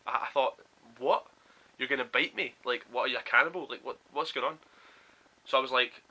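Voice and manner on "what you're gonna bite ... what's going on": mildly incredulous string of questions; retold disbelief. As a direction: replay your baffled reaction.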